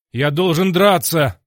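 loud, high, slow defiance; defiant shout. A narrator's reading. Hero shouts defiance back at Dargon. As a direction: shout back that you must fight.

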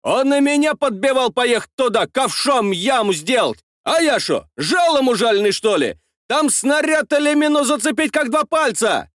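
high indignant man's voice; indignant tractor driver. A narrator's reading. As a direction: defend yourself hotly. Tractor driver defends himself. (возмущённый тракторист)

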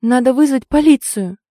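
high, loud panicky outburst; girl panicking over a dead body; nervous blurt. Acted. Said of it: "нервно выпалила она".

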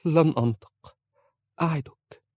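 high, loud desperate plea; pleading. A narrator's reading. Wife clings to husband's hand, pleading high. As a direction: beg him, clinging to his hand. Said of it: "قالت في رجاء".

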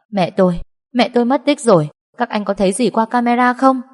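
high-pitched, urgent distress over a missing mother; hoảng hốt. Acted. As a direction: plead for news, pitch climbing. Distraught daughter begs guards for news. (giọng hoảng hốt, cao và gấp gáp)

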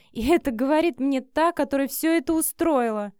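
mild contemptuous jab; contemptuous snort. A narrator's reading. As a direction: scoff at the hypocrisy. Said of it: "фыркнула презрительно Вика".

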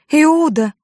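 shocked scream. A narrator's reading. Judith finding her brother's body, screaming in shock. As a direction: cry out the name in horror. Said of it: "закричала она, потрясённая".

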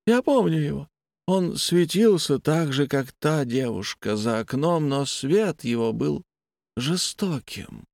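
a detached, unsettling patient; blind patient voice. Acted.

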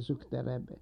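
plain reading voice

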